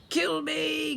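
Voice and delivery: high, loud desperate howl. Acted. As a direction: howl it like a doomed goblin prince. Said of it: "Grogber howled".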